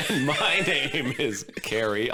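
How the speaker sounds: laughing through a silly put-on voice. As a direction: say your name in a goofy character voice. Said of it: "I'll just use my own voice".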